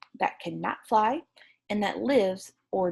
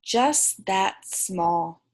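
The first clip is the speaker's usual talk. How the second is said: slow, gentle reassuring answer; tender; much slower than usual. Acted. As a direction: draw it out lovingly.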